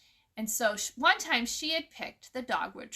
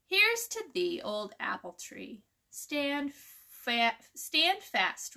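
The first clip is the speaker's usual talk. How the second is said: put-on rhythmic, lilting recitation of an old toast; teacher reciting a folk poem to her class; poem reading; slower than usual. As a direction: read it like a cheerful harvest chant. Reads a poem aloud.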